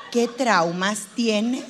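low, very slow therapist question; probing psychologist. Acted.

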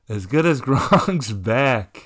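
mock slow line. Quoting a joke he made.

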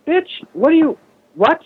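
squealing high mock disbelief; incredulous outburst. Reacting to a pricey entry-level condo, high incredulous squeal. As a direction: shriek your disbelief at the price.

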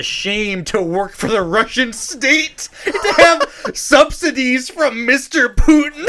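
high, slow mock French accent. Host reading a news story, in a French accent. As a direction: read the callers in a hammed-up French accent. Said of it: "Is that your best French accent".

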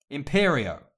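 loud, high incantation; curse shout. A narrator's reading. Harry takes control of the elf, forceful spell. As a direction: hurl the curse.

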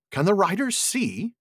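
high, slow questioning hobbit; Mary's voice. Acted. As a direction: raise the voice into a worried question. Mary asks the obvious question.

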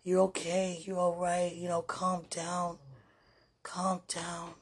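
soft, slowing, calming herself; self-soothing. Real, not acted. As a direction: talk yourself down gently. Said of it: "ministering unto myself".

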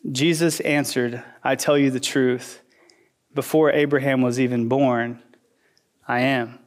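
low, hushed scripture reading; solemn reading. Shown as a demonstration. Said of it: "verse fifty-eight happened".

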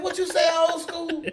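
high, loud incredulous question; retold astonishment. Friend questioning old school's wild boast, loudly incredulous. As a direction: ask it as if you can't believe your ears.

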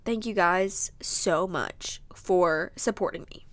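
slow, choked-up thanks; tearful thanks. Real, not acted. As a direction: thank them slowly, close to tears. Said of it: "I'm gonna cry again".

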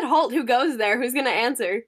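a hint of the herald voice; loud page demanding an answer. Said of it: "I said".

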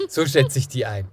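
usual speaking voice

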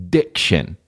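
"diction" carefully enunciated, syllable by syllable; crisp diction. Shown as a demonstration. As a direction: pronounce "diction" with every consonant clear. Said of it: "Clean up the way you're saying it".

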